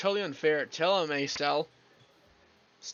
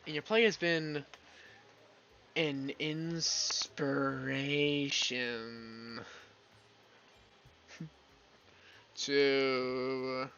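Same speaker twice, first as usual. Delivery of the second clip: lightly voiced starstruck fan, halting; a hint of a nervous fangirl meeting her idol; shy fangirl; 4 dB quieter, slower than usual. Fangirl Reva stammering to her idol, lightly voiced.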